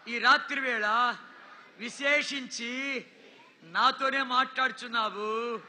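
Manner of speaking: slow, measured prayer for the crowd to repeat; a slow, earnest prayer of repentance; led prayer. Acted. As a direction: pray it slowly, phrase by phrase. Leads repeat-after-me prayer.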